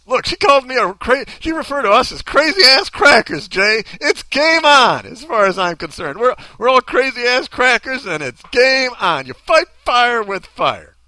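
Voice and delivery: lightly played worked-up nerd; nerdy guy voice. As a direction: protest loudly like a mock-offended nerd. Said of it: "white guy voice?".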